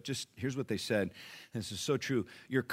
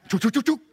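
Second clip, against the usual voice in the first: quick repeated "choo" sound effect; imitated rapid "choo" noises; 12 semitones higher, 10 dB louder, faster than usual. Pastor mimics the reaction to his job, rapid noises. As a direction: fire off a run of mouthed noises.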